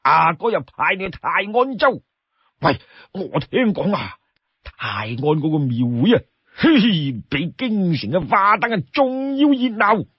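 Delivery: high-pitched, animated sworn brother; eager, wheedling Li Kui. Acted. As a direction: wheedle your brother with big swooping pitch. Storyteller plays wheedling Li Kui.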